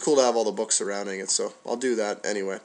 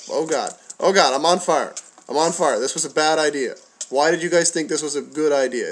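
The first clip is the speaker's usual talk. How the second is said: panicked yelping, higher and louder; trembling whiny yelps; 4 semitones higher, 4 dB louder than usual. Real, not acted. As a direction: yelp it out, on fire in panic. Catches fire in the game.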